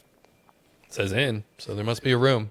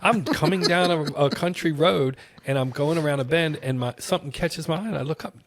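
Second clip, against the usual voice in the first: higher and louder, laughing through the words; bubbling over with delight while retelling it; excited laughing storytelling; laughing excitement; 7 semitones higher, 4 dB louder than usual. Retold or imitated. Retelling thrill of spotting castle.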